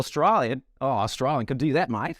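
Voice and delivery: playful Australian twang; lightly put-on Australian accent. Shown as a demonstration. Asked for his best Australian voice, playful Australian accent. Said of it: "give us your best, uh, Australian voice".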